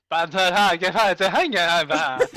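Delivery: nonsense syllables drifting from Italian into Yiddish; mock Italian-Yiddish babble. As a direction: imitate Italian gibberish gone slightly Yiddish. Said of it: "it went a little bit Yiddish there".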